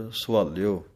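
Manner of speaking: ਸਵਾਲਿਓ with weight on the l sound; firm l in ਸਵਾਲਿਓ; stress on the l. Shown as a demonstration. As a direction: lean on the l of ਸਵਾਲਿਓ. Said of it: "ਲੱਲੇ ਉੱਤੇ ਥੋੜ੍ਹਾ ਜਿਹਾ ਜ਼ੋਰ ਦੇ ਕੇ".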